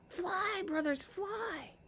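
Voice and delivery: high panicked shrieks; shrieking. Acted. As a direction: scream it out as they flee in terror. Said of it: "shrieking as they fled".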